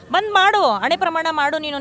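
demanding shout at the accused; angry outburst. Real, not acted. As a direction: snap it out in real anger. Heated accusation at press meet.

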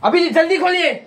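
high-pitched theatrical command; mock-urgent demand; acted urgent order. Acted order in filmed take.

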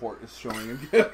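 ordinary talk, nothing marked

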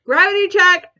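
lightly voiced high warning; body's alert. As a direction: pipe up as the body sounding an alert. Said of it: "My body's just like".

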